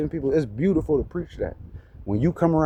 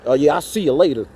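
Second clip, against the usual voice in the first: a quick, lower, mock-menacing send-off; fake tough threat; 5 semitones lower, faster than usual. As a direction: imitate a cop's hollow threat as he drives off. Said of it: "saying like a fake threat".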